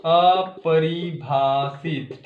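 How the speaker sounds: अपरिभाषित stretched out very slowly, syllable by syllable; slow emphasis. Shown as a demonstration. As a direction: spell out अपरिभाषित slowly so it sinks in.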